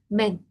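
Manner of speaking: "Men" with a plain Spanish e; Chinese men. Shown as a demonstration. Teacher contrasting the right form with man. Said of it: "Aquí no digo man".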